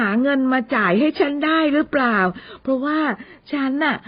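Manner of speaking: put-on young woman gushing, then fishing about pay; impressed Amy. (เสียงผู้หญิงทึ่ง ว้าวลากยาว แล้วแซว)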